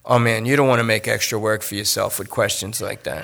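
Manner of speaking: chuckling through the words; amused, brushing off the question; laughing. Acted. Lester dodges with a laugh.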